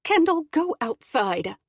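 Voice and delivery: high, slow, trembling mother; shaky voice. Acted. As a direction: hold it together, voice shaking. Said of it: "Mara says in a shaky voice".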